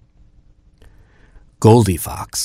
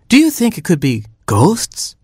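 higher mother hen voice; a fussy mother hen, pitched up; Mama Hen voice; 10 semitones higher than usual. Acted. Mother hen finding her oatmeal eaten, higher voice.

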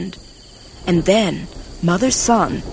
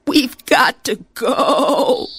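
Jumbuck voice; 6 semitones higher than usual. Acted. Jumbuck speaks in story.

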